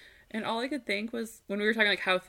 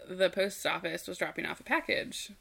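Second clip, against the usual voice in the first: odd phrasing. Real, not acted. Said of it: "I said that in a weird way".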